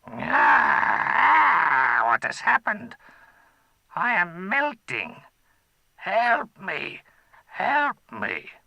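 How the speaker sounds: high, loud cries of alarm; a melting dragon shrieking; panicked dragon. Acted. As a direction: dragon crying out as he melts.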